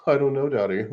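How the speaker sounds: mock coy giggling. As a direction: pretend to be bashful and titter through it. Acted reply of reenactor, giggling.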